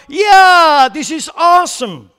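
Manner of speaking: high, loud, delighted cheer; thrilled crowd. Retold or imitated. Voters cheering the candidate's giveaway, high and excited. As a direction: whoop like a crowd given free money. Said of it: "And people go".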